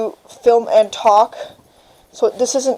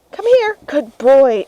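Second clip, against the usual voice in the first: calling the puppy; 3 semitones higher, slower than usual. Real, not acted.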